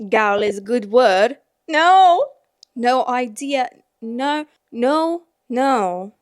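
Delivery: loud, hammed-up stab at Irish; attempted Irish accent. Shown as a demonstration. Nervous reader really wanting to try it, attempted Irish accent. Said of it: "I'm, I really wanna try, but I'm scared".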